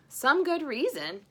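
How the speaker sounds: slow, loud sarcastic scoff; cried. Acted. Wife scoffing at Santa, sarcastic. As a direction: drip with scorn. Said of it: "she cried".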